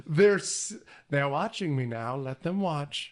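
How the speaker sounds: lightly voiced creepy old woman; a touch of terrifying old woman voice; Norman's mother. Mother who knows she is watched, lightly voiced old woman. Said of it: "It's in this terrifying old woman voice".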